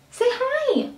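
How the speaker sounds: high, sweet pet voice. Real, not acted. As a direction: coo at the dog. Talking to her pet.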